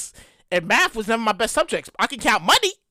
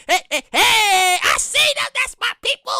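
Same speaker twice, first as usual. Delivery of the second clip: put-on much higher, thrilled little kid calling out; excited kid; 10 semitones higher than usual. Kid at the live show to parents, excitedly high voice. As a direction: squeal like a child spotting Big Bird. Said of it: "kid at Sesame Street live show".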